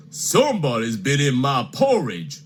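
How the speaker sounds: lightly voiced big papa bear, a touch gruff; a hint of a grumbling father bear. Papa Bear complaining to his family, lightly voiced. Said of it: "said Papa Bear".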